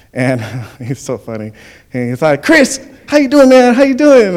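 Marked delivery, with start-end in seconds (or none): 2.4-4.4 high, loud imitation of an excited coach; hearty greeting. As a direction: call out to an old player, imitating the coach. Greeted by old coach at Walmart.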